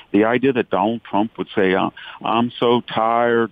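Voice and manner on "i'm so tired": slow, drawn-out mock weariness; Hillary Clinton's tired line. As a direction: lightly imitate a weary politician, stretching it out. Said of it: "the way that Hillary Clinton did".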